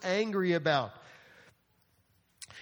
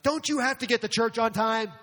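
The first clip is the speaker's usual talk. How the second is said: seething driver; 4 semitones higher, 5 dB louder than usual. Retold or imitated. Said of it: "you're starting to be seething about it".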